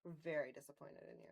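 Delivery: a hint of a let-down mom; lightly voiced disappointed mom; disappointed parent. Shown as a demonstration. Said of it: "Megan, use your disappointed mom voice".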